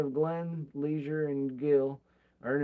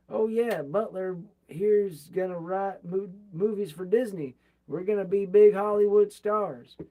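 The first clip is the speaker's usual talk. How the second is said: bragging; 3 semitones higher, 6 dB louder than usual. Retold or imitated. Bragging to father-in-law.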